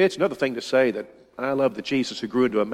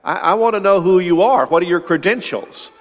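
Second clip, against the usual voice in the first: mock nervous challenge; 5 semitones higher, 3 dB louder than usual. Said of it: "I get a little nervous".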